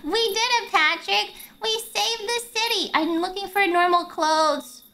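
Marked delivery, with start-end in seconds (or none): 0.0-2.9 SpongeBob impression. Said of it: "this is not a SpongeBob episode".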